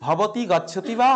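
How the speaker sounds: ভবতি গচ্ছতি বা read slowly, rising on বা; slow Sanskrit demo. Shown as a demonstration. Teacher showing students the feminine form, slow and clear. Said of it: "এবারে মহিলা হয়".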